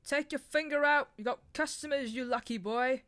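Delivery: shouting. A narrator's reading. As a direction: bang on the bar and yell it. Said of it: "he shouted".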